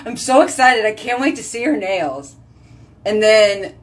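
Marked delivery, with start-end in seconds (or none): 0.1-2.4 mock excited husband. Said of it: "Charles was like".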